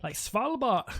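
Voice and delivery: mock Finnish accent; lightly hammed-up Nordic accent. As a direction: say it like a put-on Finn. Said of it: "Finnish, wasn't it".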